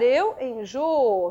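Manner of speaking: "eu abençoo" drawn out slowly; slow conjugation. Shown as a demonstration. Teacher slowly conjugates "abençoo" for the class. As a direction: spell out "eu abençoo" at half speed.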